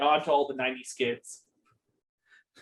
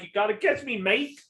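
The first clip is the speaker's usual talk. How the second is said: put-on a light, slightly raised Australian accent; 4 semitones higher than usual. Lucky the leprechaun taunting kids in an Australian accent. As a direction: toss it off like a cheeky Australian leprechaun. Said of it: "that was Australian".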